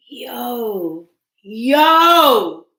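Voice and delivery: a high shouted yo; loud excited yo. Real, not acted. Reader shouts yo at what she just saw on the cards. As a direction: call out in sheer excitement.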